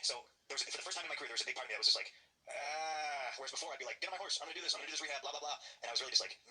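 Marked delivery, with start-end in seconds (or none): 2.5-3.3 long drawn-out "ahh" of reluctance; weary groan. Retold or imitated. Retold reaction, reluctant groan of dismay. 4.0-5.6 higher-pitched gung-ho self-imitation; lightly sung-out, high mock enthusiasm; mock eagerness. Mimics his former eager self.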